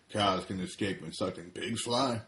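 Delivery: farmer's voice at normal pitch; lightly voiced farmer. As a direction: farmer repeating the joke, normal register. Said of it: "He says to Smoking Cigarette".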